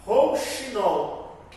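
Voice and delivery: rouxinol stretched very slowly, each sound held; drawn out slowly. Shown as a demonstration. Teacher slowly presenting the memory word, stretched out. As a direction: spell rouxinol out syllable by syllable. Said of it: "da palavra".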